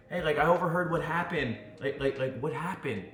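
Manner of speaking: mildly hesitant, casual question; middle-of-the-road. Shown as a demonstration. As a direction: ask casually, softening toward the end. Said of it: "somewhere in this area of".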